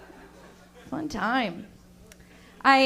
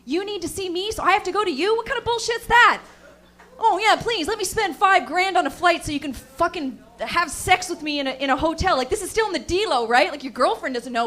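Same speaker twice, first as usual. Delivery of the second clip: higher, sarcastic mock outrage; indignant retort; 3 semitones higher than usual. Narrator scolding the man on the phone, higher sarcastic outrage. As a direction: scoff at the request, laughing. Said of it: "I was like".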